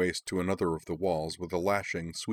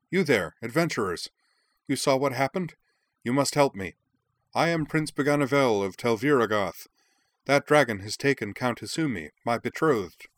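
raised, higher call to the adventurers; a young prince calling out urgently, higher and louder; crying out; 6 semitones higher, 5 dB louder than usual. Acted. Prince crying out to adventurers, high and loud. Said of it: "crying out".

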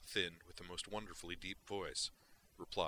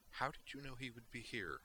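higher, soft and precise alien officer; curious Vulcan; 6 semitones higher, 5 dB quieter than usual. Acted. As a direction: ask with cool, exact curiosity. Valeris asks Duke.

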